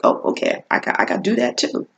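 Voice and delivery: quick unvoiced whisper to herself; hurried whisper, nervous newcomer; whispered thought. Sixth grader thinking at the start line, quick whisper.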